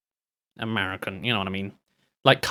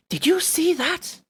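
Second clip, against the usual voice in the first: high, slow mock voice of the trailer guy; mock character line; 13 semitones higher, 4 dB quieter, slower than usual.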